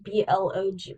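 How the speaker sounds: B L O G spelled letter by letter. Retold or imitated. Reading a word aloud, spelling B L O G letter by letter. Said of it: "and I'm like".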